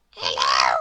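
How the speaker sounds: very low, loud tiny man voice; Mister Small greets in a deep voice; little voice. Acted. Mister Small at the door, very low loud greeting. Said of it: "said a little voice".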